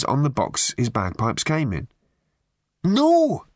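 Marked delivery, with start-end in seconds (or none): 2.8-3.4 loud, very high-pitched yell; shout. A narrator's reading. Piper chasing off an American couple, shouting. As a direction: shout them off, voice shooting up. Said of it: "he shouted at them".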